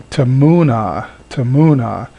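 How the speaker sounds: tamuna with a very short first vowel; short schwa. Shown as a demonstration. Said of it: "very short airtime".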